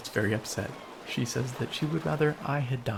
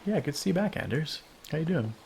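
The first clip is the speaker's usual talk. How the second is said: pompous English artiste voice; 5 semitones higher than usual. Pretend. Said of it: "Pompous artiste voice".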